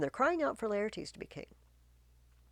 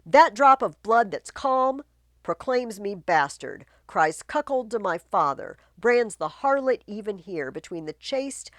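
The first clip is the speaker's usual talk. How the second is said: raging Laertes; 3 semitones higher, 9 dB louder than usual. Acted. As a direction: hurl the insult at the queen.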